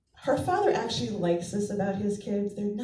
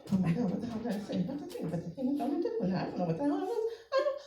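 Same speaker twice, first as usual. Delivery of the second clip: panicked muttering; 3 semitones higher, 3 dB quieter, faster than usual. Retold or imitated. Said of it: "She's muttering".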